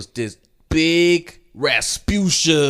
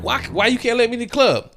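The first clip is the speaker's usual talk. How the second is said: high-pitched mock protest; mildly hammed-up complaint, pitched high; retold protest; 10 semitones higher, 3 dB louder than usual. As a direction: act out a pleading, puzzled objection. Retells protest at being refused entry.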